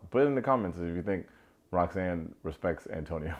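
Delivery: rushed, tongue-in-cheek ask; quick sarcastic call to comment; joking. Shown as a demonstration. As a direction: toss it off fast, half laughing. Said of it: "No, no, I'm gonna say it seriously".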